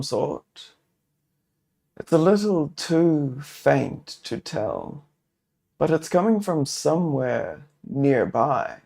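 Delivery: measured, descriptive game master narration; steady storyteller voice setting the scene; story narration. A narrator's reading. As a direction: paint the forest scene for the table. Solo GM narrates the grove scene.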